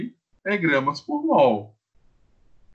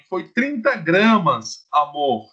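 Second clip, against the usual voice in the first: mock wife voice; slower than usual. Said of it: "Aí sua esposa fala assim".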